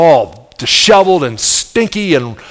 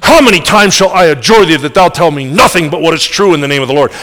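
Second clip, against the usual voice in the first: irritated king. Acted. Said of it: "Ahab whips around".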